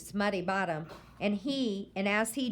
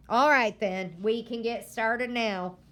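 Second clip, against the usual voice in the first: stern grandma; 4 dB louder than usual. Acted. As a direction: warn the boy firmly. Grandma lecturing the boy.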